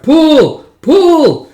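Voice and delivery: high, loud, drawn-out haul call; long high yell to the crew; work-crew shout. Acted.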